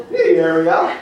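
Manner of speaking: high, carrying call of the name; calling across the room, high. Real, not acted. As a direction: call her over, bright and up. Calling out to someone.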